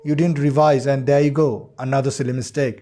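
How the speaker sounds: slow mock-scolding told-you-so; teasing sarcasm. Shown as a demonstration. Teacher taunting a student who skipped revision, mild sarcasm. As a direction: tease the student about the slip, lightly. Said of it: "टीजिंग tone में बोलते हैं".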